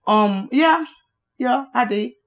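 hesitant, unenthusiastic admission; halting and half-convinced, with pauses between; unexcited. Real, not acted. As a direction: admit it without much excitement. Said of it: "You don't sound excited about it".

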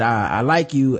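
lightly voiced African accent, calm; a hint of a mock African accent, said quietly. Host offers a calmer take in a hint of an African accent. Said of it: "No, I just think he said".

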